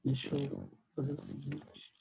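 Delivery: faint, hissy connection audio; corrupted glitchy audio. Real, not acted. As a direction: voice under background static. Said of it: "ainda tem um chiado no fundo".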